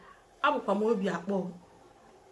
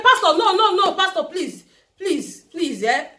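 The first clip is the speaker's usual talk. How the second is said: much higher and louder, laughing as she pleads; laughing protest; 7 semitones higher, 7 dB louder than usual. Retold or imitated. Girl laughing as she refuses the pastor's wedding prophecy.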